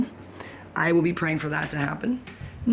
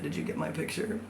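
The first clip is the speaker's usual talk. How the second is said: Joffrey; 7 dB quieter than usual. Retold or imitated. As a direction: say it softly, as an imitated man. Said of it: "This is my Joffrey impersonation".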